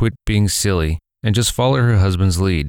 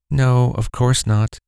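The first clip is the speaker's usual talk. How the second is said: slow, drawn-out mother; 4 semitones higher, slower than usual. Acted. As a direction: answer slowly, a little unsure. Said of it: "the mother had said".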